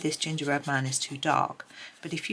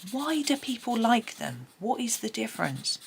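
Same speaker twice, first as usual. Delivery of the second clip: higher-pitched quizzical self-quote; puzzled questioning, pitched up; curious; 6 semitones higher than usual. Retold or imitated. Colourist recalling her own wondering about alcohol markers, curious. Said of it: "because I was really curious".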